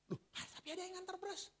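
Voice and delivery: high, fast, astonished voice of the wife; surprised wife. Retold or imitated. Preacher imitating his wife, startled that rice keeps arriving. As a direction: blurt it out in high amazement.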